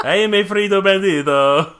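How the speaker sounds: mock Latino accent. Host retries the ad line after coaching, in a hammed-up Spanish accent. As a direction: ham up a Spanish accent for the jingle. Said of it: "a Latinx accent".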